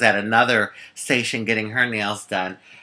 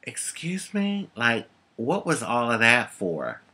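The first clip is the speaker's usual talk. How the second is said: fuming indignation; 7 dB quieter than usual. Retold or imitated. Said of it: "I'm fuming".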